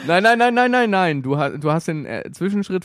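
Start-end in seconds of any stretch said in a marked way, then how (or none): 0.1-1.2 excited protest. Real, not acted. Protesting his friend's story.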